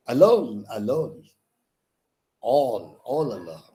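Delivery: "Alone" punched first, then spaced, softening beats; rhythmic metre. Shown as a demonstration. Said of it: "The way in which you read".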